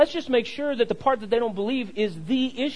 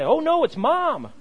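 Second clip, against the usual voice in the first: mock toddler alarm; 7 semitones higher than usual. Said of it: "they say".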